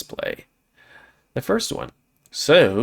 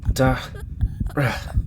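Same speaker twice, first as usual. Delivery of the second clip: slow, choked, whispered sob of her name; choked cry; 3 semitones higher, 3 dB quieter, much slower than usual. Acted. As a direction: force the name through a lump in the throat. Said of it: "The knot in my throat wouldn't let me".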